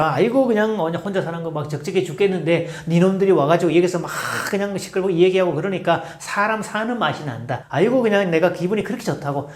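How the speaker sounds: lightly voiced old man, chatty; a hint of a grateful elderly neighbour; imitating an old man. Old man thanking noisy teens for their company, lightly imitated. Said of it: "어르신 흉내를 막 내면서".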